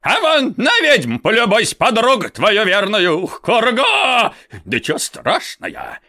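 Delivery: loud, spiteful shouting; angry old man. Acted. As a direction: yell it out in spite. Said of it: "злобно выговаривая".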